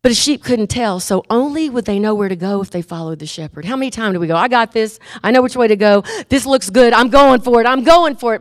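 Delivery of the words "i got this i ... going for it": cocky, insistent, getting louder; cocksure. Acted. Headstrong sheep insisting on its own way, cocksure. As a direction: build eagerly as if charging ahead.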